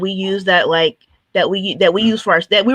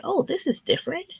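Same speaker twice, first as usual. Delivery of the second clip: high, soft voice of dawning surprise; pleasant realization; 10 semitones higher, 7 dB quieter than usual. Retold or imitated. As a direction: quote your own quiet "oh" moment, pitched up high. Recalls realizing things had changed.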